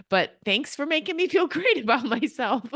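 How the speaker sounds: sarcastic thanks. Pretend. Sarcastic imagined reply to kid.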